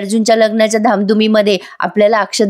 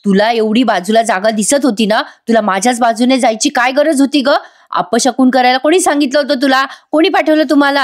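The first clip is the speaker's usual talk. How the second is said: mock yell; 2 semitones higher than usual. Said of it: "त्या बाईलाच ओरडते".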